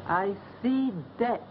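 foretell death darkly; fortune teller. Acted.

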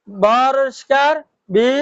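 slow "বরিষ্কার" rising at the end, then a separate "বি"; syllable demonstration. Shown as a demonstration. Teacher showing learners the i vowel, slowly sounding out "বি". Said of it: "জের বাংলা রস ইকারের মতন উচ্চারণ হয়".

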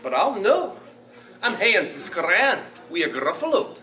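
put-on animated children's storytime in Scottish dialect; lilting, theatrical Scots storyteller; Scots story reading. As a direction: read it to children in broad Scots, with big swings. Reads Gruffalo aloud in Scots.

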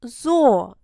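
ЗО said alone, firm and loud; loud, isolated Зо. Shown as a demonstration. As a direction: punch out the single syllable Зо. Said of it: "Перший склад гучніше".

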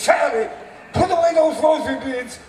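high, loud gleeful cry; an overjoyed parrot's shouted punchline; excited parrot. Acted. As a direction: shout it like a prayer just came true.

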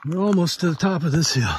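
winded on an uphill climb; short phrases broken by pauses for breath; breathing hard. Real, not acted. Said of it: "you wonder why I'm breathing hard".

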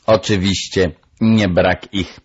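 a hint of bird character; lecturing parrot. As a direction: concede the point as a parrot. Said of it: "pouczała papuga piskliwie".

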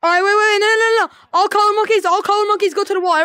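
high loud orders; loud calling out. Real, not acted. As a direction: stop the crowd with your voice. Halting players in game.

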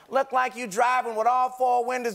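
Uncle Ray. Retold or imitated. Host retells his uncle's punchline, lightly imitated uncle. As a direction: explain it like a teasing uncle. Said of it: "My Uncle Ray used to say things like this".

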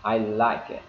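"I like it" linked on a faint K; barely touch the K of "like" before "it"; flowing "like it", final K of "like" reduced. Shown as a demonstration. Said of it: "phải giảm cái âm k đi".

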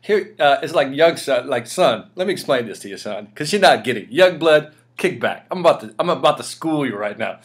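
a hint of a streetwise elder; mock condescending old-timer. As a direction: play the know-it-all mentor talking down. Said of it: "I was like".

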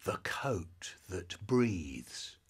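slow breathy whisper of the label. Acted. Reading mum's coat label in a slow whisper. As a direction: whisper it like a secret.

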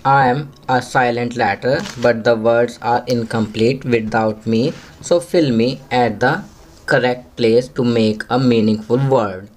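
very slow, word-by-word English read aloud; slow classroom reading. Shown as a demonstration. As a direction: read it slowly for young pupils to follow. Reads question slowly to pupils. (बच्चों के लिए बहुत धीरे-धीरे अंग्रेज़ी पढ़ना)

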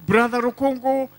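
ordinary talk

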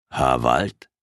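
low, calm call of a name. Acted. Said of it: "sagte eine ruhige Stimme".

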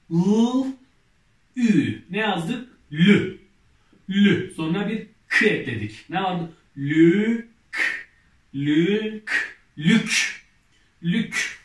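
loud, drawn-out syllable reading for the class; reading syllables aloud. Shown as a demonstration. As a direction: sound out each letter clearly, then blend them loudly. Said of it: "Devam edelim".

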